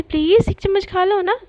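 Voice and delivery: lightly acted wheedling; pleading. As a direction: coax a sulking friend. Acted pleading with sulking friend.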